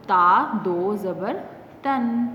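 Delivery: measured spelling ending on تن with lingering n; tanween reading demo. Shown as a demonstration. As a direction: spell it out, pause, then a held تن. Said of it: "اس کو ہم پڑھیں گے".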